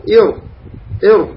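"ير" opening on I into a thick R; heavy R after kasra. Shown as a demonstration. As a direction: demonstrate "ير" with R kept heavy after I. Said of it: "هكذا". ("ير" بكسرة قبل راء مفخمة)

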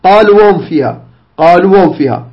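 the waw of قالوا held long, then وهم kept separate; correct recitation. Shown as a demonstration. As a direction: clear long vowel in قالوا, no merging into وهم. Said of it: "نقول هكذا".

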